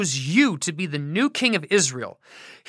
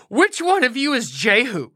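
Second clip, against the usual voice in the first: still winded; 5 semitones higher than usual. Acted. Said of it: "out of breath from his long run".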